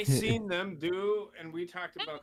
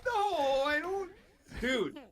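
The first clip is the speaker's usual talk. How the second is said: high mock girl voice; 10 semitones higher than usual. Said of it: "she's like".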